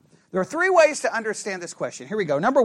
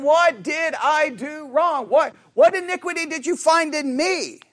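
slow, raised plea for an explanation; mildly acted hurt demand, pitched up; aggrieved questioning; 4 semitones higher than usual. Acting God's aggrieved question.

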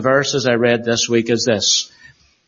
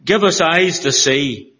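earnest pulpit prayer voice; steady, earnest prayer read. Acted. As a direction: pray it over the congregation, reverently. Pastor leads congregation in prayer.

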